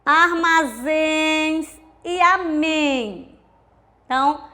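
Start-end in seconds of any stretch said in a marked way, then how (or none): 0.0-3.4 Armazéns e amém said very slowly, each ending held; 慢读示范. Shown as a demonstration. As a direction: drag out Armazéns and amém syllable by syllable. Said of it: "terminada em em ou ens".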